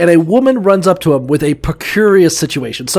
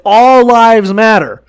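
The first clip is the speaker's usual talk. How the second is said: mock king; 5 semitones higher, 6 dB louder, slower than usual. King voiced mocking protesters.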